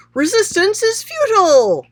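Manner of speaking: high, loud shouted line; a demo shout of the quote; mock shout. Shown as a demonstration. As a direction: shout it out like a command. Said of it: "So he's not shouting".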